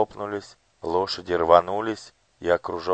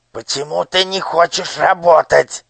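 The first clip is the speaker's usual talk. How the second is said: high, loud shrill interrogation; squeaky menacing minister; 11 semitones higher, 13 dB louder than usual. A narrator's reading. Minister demands why the boy won't work. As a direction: loom over the boy and squeak.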